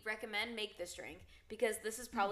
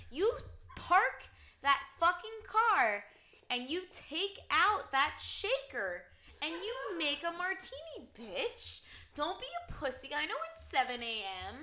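mock drill sergeant yell; 6 semitones higher than usual. Mock-aggressive rant at listeners.

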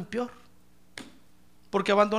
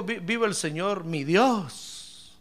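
gentle; much slower than usual. Shown as a demonstration. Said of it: "no le dijo".

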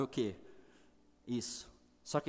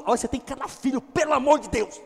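exasperated God; 9 semitones higher, 9 dB louder than usual. Acted. God's exasperated reply in the prayer.

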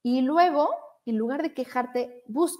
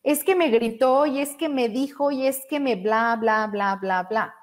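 a touch of whiny complaint, mildly raised; mock complaining. Coach imitates a friend venting, mild whiny complaining. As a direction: lightly imitate someone venting a grievance. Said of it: "nos quejamos y decimos".

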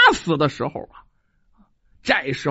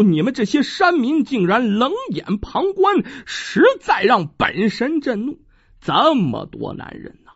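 stern mountain god. Acted. Mountain god rebukes villagers.

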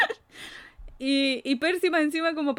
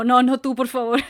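pleading cry; 7 dB louder than usual. Retold or imitated. Percy begs Señor D not answer.

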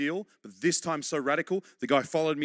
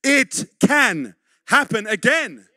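each word of "It can happen again" drawn out and louder, with "can" hit hardest; preacher hammering home that "It can happen again"; slow, loud emphatic repeat; 5 semitones higher, 10 dB louder, much slower than usual. Real, not acted. Pastor to congregation, slow loud emphasis on "can". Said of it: "I want you to really believe this".

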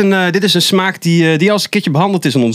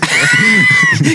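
loud burst of laughter; 4 dB louder than usual. Real, not acted.

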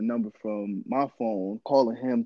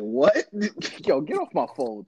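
mock shocked rebuff; 4 semitones higher than usual. Reenacts reaction to shocking request.

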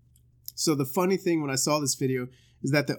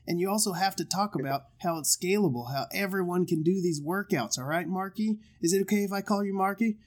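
imitating a producer; 5 semitones higher than usual. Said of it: "pre-production meeting going".

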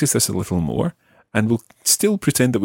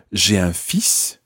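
slow run-together phrase; said slowly as one flowing unit; 2 semitones lower, slower than usual. Shown as a demonstration. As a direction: blend the words into two syllables. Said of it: "almost sounds just like two syllables".

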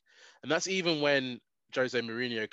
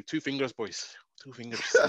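imitating coach. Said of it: "I remember that so vividly".

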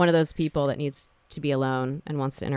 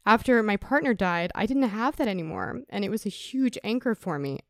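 choking up; 4 semitones higher, 3 dB quieter than usual. Real, not acted. Speaker recalls partner's death, choking up. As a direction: voice pitched up, holding back tears. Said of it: "see, I'm choking up right now".

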